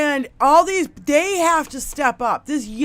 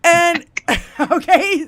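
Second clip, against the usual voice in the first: ordinary delivery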